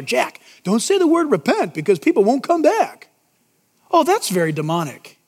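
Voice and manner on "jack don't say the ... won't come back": whispered temptation. Retold or imitated. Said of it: "Satan whispers in my ear".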